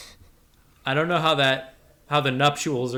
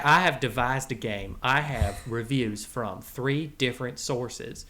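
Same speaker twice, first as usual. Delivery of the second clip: put-on cowboy character accent; 4 semitones lower than usual. The Rattler presenting his Halloween game to the boys, cowboy accent.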